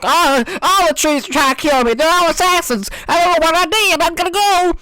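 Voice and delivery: high, hammed-up paranoid voice; mock panic. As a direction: whine it out like a scared victim. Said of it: "It's like".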